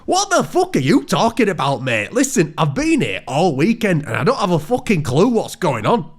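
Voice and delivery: high, exasperated disbelief; baffled outburst. Acted. Paul baffled by the hillbilly's secret name, high outburst. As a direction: blurt it out, utterly lost.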